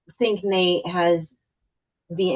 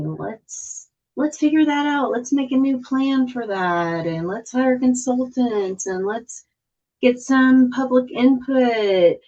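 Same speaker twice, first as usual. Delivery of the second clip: weary imitation; 6 semitones higher than usual. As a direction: reel off the familiar cycle in a raised voice. Voicing the repeated consulting cycle.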